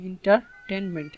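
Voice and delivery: "এন্টারটেইনমেন্ট" slow, with a break before টেইন; syllable by syllable. Shown as a demonstration. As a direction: divide "এন্টারটেইনমেন্ট" slowly into its syllables. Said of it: "এখানে চারটি syllable".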